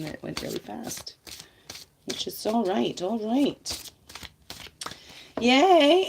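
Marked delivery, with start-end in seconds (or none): 5.4-6.1 bright, high, loud yay; happy little shout of joy; excited cheer. Real, not acted. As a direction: cheer it out like a small victory. Celebrating the daily video number.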